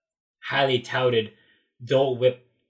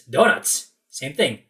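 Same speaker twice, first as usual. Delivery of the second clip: dismissive vendor; 4 semitones higher, 7 dB louder, slower than usual. Retold or imitated.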